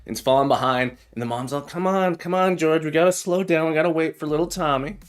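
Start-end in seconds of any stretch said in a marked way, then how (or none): 1.7-5.0 lightly raised, pleading mom voice; a hint of a fretting mother; mom tomato voice. Scene: mama tomato urging dad to wait, fretting.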